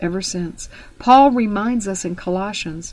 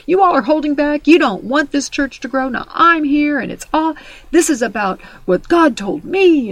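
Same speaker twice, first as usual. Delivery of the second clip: raised, accusing preacher voice; accusing pastor; 5 semitones higher, 3 dB louder than usual. Retold or imitated. Pastor accusing his congregation, raised and angry. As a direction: scold the congregation from the pulpit. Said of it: "he started accusing".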